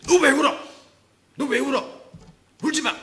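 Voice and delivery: high, loud scolding shout; parental scolding. Acted. Parent to a crying child, loud scolding. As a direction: yell at a crying child to stop. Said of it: "큰 소리 지르면 안 돼요".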